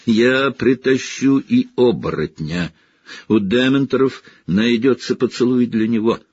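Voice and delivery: gloating villain promising punishment; gloating threat. Acted. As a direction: savour every threat. Snape gloating over captives.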